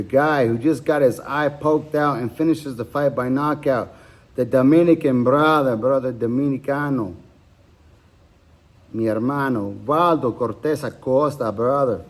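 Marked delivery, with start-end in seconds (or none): 4.3-12.0 badly faked Dominican accent, drifting toward Dagestani; hammed-up, muddled Dominican accent with Spanish thrown in; attempted Dominican accent. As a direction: put on a botched Dominican accent. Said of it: "that's not even a Dominican accent".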